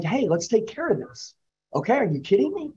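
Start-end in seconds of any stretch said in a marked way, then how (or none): 0.0-1.3 soft, caring reassurance, a bit quieter; caring lean-in. Shown as a demonstration. Salesman showing a customer a caring close, softly. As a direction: lean in and sound like you truly care. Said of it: "I'm talking to you like this".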